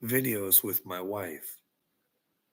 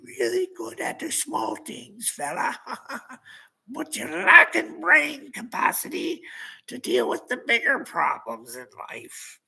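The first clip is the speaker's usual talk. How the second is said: mocking whisper; 12 semitones higher than usual. Real, not acted. Mocking lecture to viewer.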